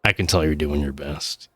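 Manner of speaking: lightly voiced kind dad. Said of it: "he looks at it and he's like".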